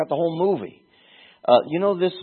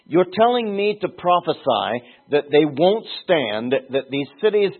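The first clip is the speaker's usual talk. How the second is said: higher and louder, building protest; anguished Jeremiah; 4 semitones higher, 4 dB louder than usual. Retold or imitated. Prophet protests to God, voice raised and building. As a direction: plead with God, rising indignation.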